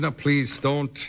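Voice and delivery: a hint of a German director's accent, pleading; lightly imitating Billy Wilder's German accent; Billy Wilder's German accent, barely put on; light Stuttgart accent. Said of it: "he talks with a Stuttgart accent".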